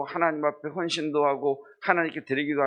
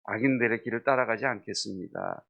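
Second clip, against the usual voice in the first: emphatic declaration; 2 semitones lower than usual. Acted.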